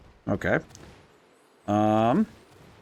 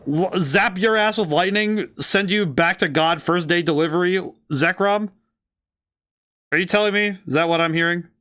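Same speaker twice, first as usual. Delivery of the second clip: excited disbelief; 4 semitones higher than usual. Real, not acted. Excited disbelief about Zekrom.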